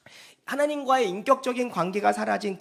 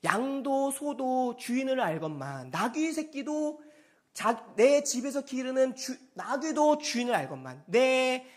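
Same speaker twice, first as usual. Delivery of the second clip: slow, drawn-out lament; mildly aching reproach, stretching the phrase ends; understated grieving appeal; plaintive; 2 semitones higher than usual. Retold or imitated. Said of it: "애절절절한 마음이 나오는 거예요".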